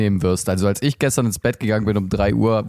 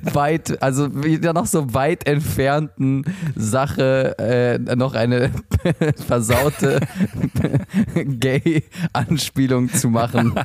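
laughing; slower than usual. Real, not acted. Laughing while teasing friend.

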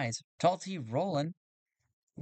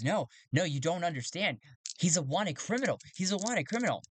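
protesting; 4 semitones higher than usual. Acted. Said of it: "Jito goes".

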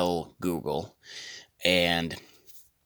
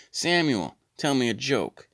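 talking to assistant; 7 semitones higher than usual. Pretend. Asking voice assistant for joke.

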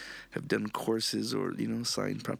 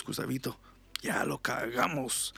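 whisper; 2 semitones higher than usual. Retold or imitated. Uncle's whispered last words.

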